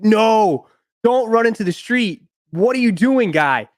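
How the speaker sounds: high-pitched retold cry after a runaway dog; retold alarmed calling. Storyteller to a dog running into the street, retold alarmed calling. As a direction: replay calling out in dismay, pitch jumping up.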